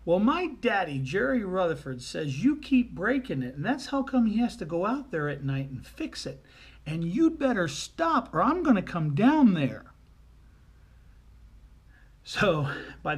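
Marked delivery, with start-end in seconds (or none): 0.0-9.9 put-on loud, high, singsong child scolding; little girl. Little girl warns the lady on the radio, scolding loudly. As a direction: lay down the law like an indignant little girl. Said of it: "And the little girl says".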